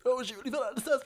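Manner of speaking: retold suppressed laughter. Mimics himself snickering at the funeral.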